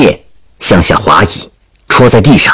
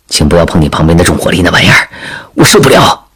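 mock-frightened plea; 3 semitones lower, faster than usual. Soldier begging the princess off the launcher, joking frightened plea. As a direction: rush it out as if scared. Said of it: "脸上现出很害怕的样子".

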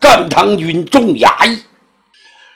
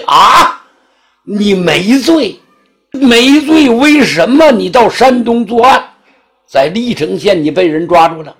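a magistrate losing patience with insolent prisoners; indignant magistrate. Acted. Magistrate scolds defiant criminals. (县官气恼训斥)

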